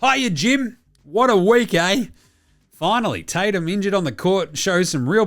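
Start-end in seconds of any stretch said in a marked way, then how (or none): 0.0-2.1 high, loud hammed-up greeting; hyped intro. Host opening the mailbag segment, hammed-up cheer. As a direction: announce it like a sports-show host.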